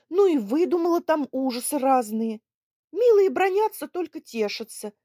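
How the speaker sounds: high, loud, bustling persuasion; brisk and eager. Acted. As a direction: hurry the matter along. Daughter briskly sorts things out. (бойко уговаривая отца)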